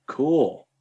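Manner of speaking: imitating an unimpressed "cool"; retold brush-off, one drawn word with a shrug; dismissive shrug. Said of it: "shrugs his shoulders, raises his eyebrow".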